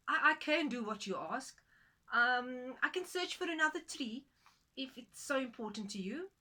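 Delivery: a startled woman eager to oblige; flustered woman. Acted.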